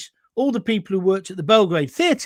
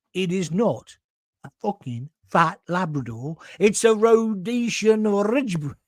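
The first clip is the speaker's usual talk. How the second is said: pointed correction; 3 semitones higher than usual. Retold or imitated. Landlord correcting a customer about his dog, pointedly. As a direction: spell out the breed with heavy pauses.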